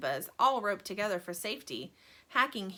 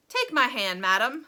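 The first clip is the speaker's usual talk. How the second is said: gallant; 3 semitones higher, 7 dB louder than usual. A narrator's reading. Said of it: "said Mister Wonka gallantly".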